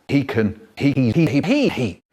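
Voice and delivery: rhythmic pop-star hee-hees; a pop star. Acted. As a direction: imitate a pop star's vocal hiccups. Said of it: "The pop-star rap".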